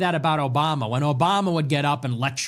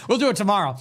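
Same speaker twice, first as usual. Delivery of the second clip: laughing repeat, pitched up; 5 semitones higher, much faster than usual. Real, not acted. Host laughing off skipping Iran until tomorrow.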